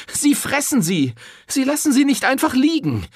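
high, loud furious reproach; angry accusation. A narrator's reading. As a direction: shame him to his face. Angry despairing woman.

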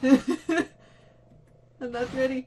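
very slow, loud, high wail; long loud whine of fear; drawn-out panic. Real, not acted. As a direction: stretch each word out in dread.

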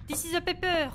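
English with a thick French accent; French accent on every English word. Real, not acted. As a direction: speak English like a French beginner. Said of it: "J'en peux plus de mon anglais".

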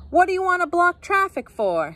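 high-pitched indignant driver's call. A narrator's reading. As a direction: call it out the window at traffic. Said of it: "he called out".

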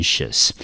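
"sious" said as one unstressed syllable, like "shus"; syllable demonstration. Shown as a demonstration. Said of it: "我们就念成".

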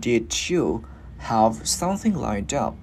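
DID YOU joined, D released straight into YOU, slow; linked D. Shown as a demonstration. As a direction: slowly link "Did you" as one unit. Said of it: "luyến hơi qua chữ U luôn". (nối âm D của "Did" sang "you", đọc chậm)

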